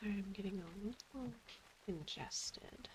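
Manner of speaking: whispering through a yawn. Real, not acted. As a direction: let a yawn break the words. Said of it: "It might also be that I keep yawning".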